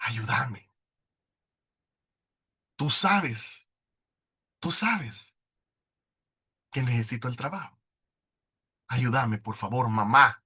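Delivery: tearful plea. Retold or imitated.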